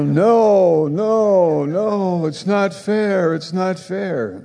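high, laughing whine, no, no, not fair; mock the jealous listener with a childish whine; whiny mock protest. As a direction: ham up a sulking child.

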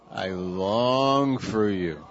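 slow, tender longing. Shown as a demonstration. Pastor models words to a neighbour, slow and tender. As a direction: linger on each word lovingly. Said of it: "Say to your neighbor".

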